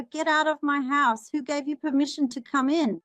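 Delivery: retold repeated order. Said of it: "I kept telling him over and over".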